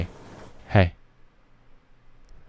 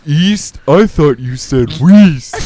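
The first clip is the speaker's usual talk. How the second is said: mock outrage; 5 semitones higher, 10 dB louder, much slower than usual. Mocking the wrong name.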